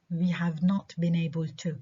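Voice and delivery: weight on "have" before "not"; stress on HAVE. Shown as a demonstration. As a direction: emphasise "have", then "not". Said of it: "Have و should".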